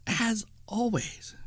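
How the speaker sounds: slow, breathy Halloween whisper; spooky whisper. Shown as a demonstration. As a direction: whisper it slowly to build suspense. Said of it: "Did I scare you?".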